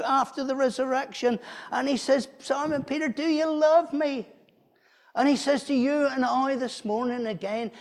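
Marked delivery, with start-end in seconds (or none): 2.4-4.3 Jesus asking Peter. Acted. Jesus asks Peter on beach.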